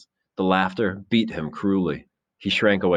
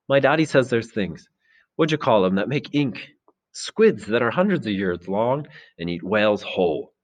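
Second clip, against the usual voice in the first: lightly voiced boy, higher at first; Maurice, boy telling a tale; 4 semitones higher than usual. Boy telling the assembly about giant squids, lightly voiced wonder. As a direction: search for the word, then marvel a little.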